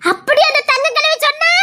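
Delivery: high-pitched show of surprise; incredulous question. Acted. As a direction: act astonished, pitch jumping up. Feigned surprise at the accusation.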